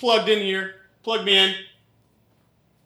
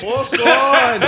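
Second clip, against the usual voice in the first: shouting; 5 semitones higher than usual. Acted. Cop calling out.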